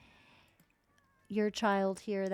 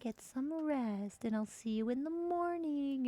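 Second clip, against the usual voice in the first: put-on tuck a child in lovingly; sweet mom saying goodnight; tender mom voice; 3 semitones higher than usual. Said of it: "She's like".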